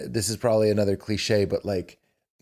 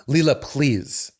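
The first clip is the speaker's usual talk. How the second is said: calm gentle request; slower than usual. Shown as a demonstration. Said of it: "exactly how I just said it".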